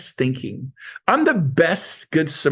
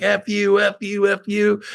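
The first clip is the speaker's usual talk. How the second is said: higher-pitched mock cursing; retold angry taunting; 6 semitones higher than usual. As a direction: rattle it off like a bickering driver. Retold road rage quarrel.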